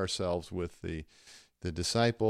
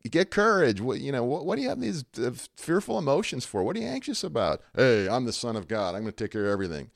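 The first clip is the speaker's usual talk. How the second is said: tough, unempathetic; 4 semitones higher, 5 dB louder, faster than usual. Acted. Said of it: "It doesn't feel very empathetic".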